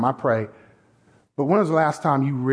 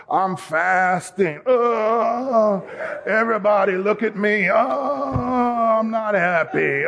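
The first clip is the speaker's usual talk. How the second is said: mock showy faster; slower than usual. Mocking a showy fasting worshipper.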